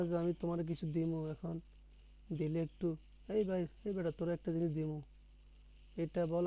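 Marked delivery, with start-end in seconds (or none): 3.3-5.0 mildly brusque, familiar offer; lightly acted careless way of offering a gift; offhand, unaffectionate. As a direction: toss the offer out quickly, without tenderness. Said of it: "কোনটার মধ্যে মায়া আছে?".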